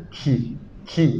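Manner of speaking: Qui with a soft puff of air after the k; airy qui; aspirated k. Shown as a demonstration. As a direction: breathe out on qui. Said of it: "Vous avez vu?".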